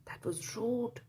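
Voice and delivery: hushed aside to listeners; whisper. Real, not acted. Reader whispers to the children, shocked. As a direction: whisper it like a secret. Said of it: "narrator aside, whispered".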